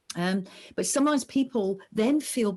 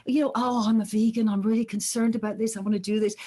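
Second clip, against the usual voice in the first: fake sincerity; 2 semitones higher than usual. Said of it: "they can go".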